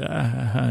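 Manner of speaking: soft, retold chuckle; small put-on "ha ha"; mock laugh. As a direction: imitate a laugh lightly, quietly. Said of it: "they both laughed at that".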